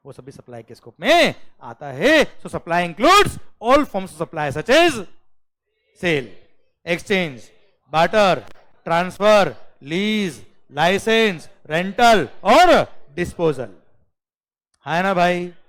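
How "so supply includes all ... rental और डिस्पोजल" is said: loud, slow, item-by-item recital; recitation drill. Shown as a demonstration. Teacher drilling a definition for students, loud recitation. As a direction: hammer out each item with a pause after it.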